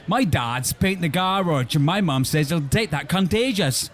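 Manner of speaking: put-on a light Welsh accent, a bit slow. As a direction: play the Welsh boy with a light Welsh lilt. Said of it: "No, good accent".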